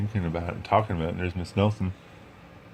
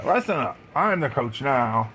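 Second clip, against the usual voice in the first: 1 stern coach; 4 semitones higher than usual. Acted. Coach asserts authority.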